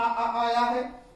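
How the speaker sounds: very slow, long drawn-out आ in आया; slow vowel demo. Shown as a demonstration. Teacher drawing out the vowel, very slow. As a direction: stretch the आ so students hear it. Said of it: "इसमें भी आ".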